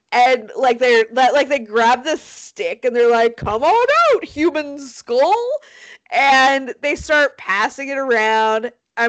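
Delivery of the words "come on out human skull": mock kids coaxing. Kids fishing a skull from a tree, playfully coaxing. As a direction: coax it out in a raised, stretched voice.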